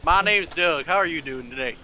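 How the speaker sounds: put-on lightly done Southern accent, easy and friendly. Doug greets the lizard in a Southern accent. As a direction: greet them like a Southern cowboy. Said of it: "good old Southern accent".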